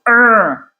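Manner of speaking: drawn-out growly "errr"; imitated grinding noise for a difficult boss; frustrated "er" noise. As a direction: stretch out an exasperated "er". Imitates an overbearing boss bothering you.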